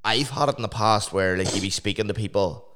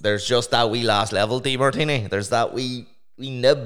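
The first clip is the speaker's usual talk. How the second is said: mock teasing; 4 semitones higher, 4 dB louder than usual. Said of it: "Did you, like, go".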